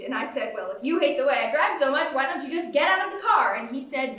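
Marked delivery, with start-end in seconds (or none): 0.5-3.5 retelling a peeved outburst, a bit louder; mildly heated mock-quarrel. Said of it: "I got kind of peeved".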